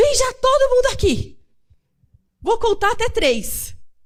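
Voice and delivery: put-on loud, high, shrill, no-nonsense scolding voice. Retelling how she herself calls the family to come at home, imitating herself talking loud. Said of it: "Falando aquela voz calminha".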